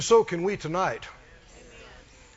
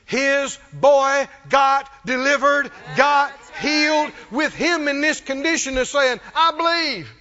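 exultant preaching; 4 semitones higher, 4 dB louder than usual. Real, not acted. Preacher telling how the boy got healed, exultant shout.

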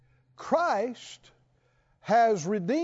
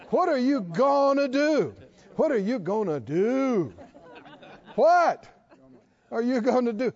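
louder, higher mock-frantic repeating, with laughter; mock panic, laughing; 3 semitones higher, 3 dB louder than usual. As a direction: ham up the crowd's panic, laughing at it. Preacher mocking panicked crowd.

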